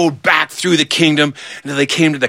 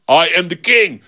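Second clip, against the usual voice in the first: mildly raised, insistent claim; insisting; 4 semitones higher than usual. Acted. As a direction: assert it in a back-and-forth argument. Two men argue over who's king.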